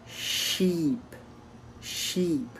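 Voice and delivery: sheep with the I drawn out; long I. Shown as a demonstration. Teacher showing a learner a long vowel, sheep with long I. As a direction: hold the vowel in sheep, letting it fall. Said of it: "c'est un I long".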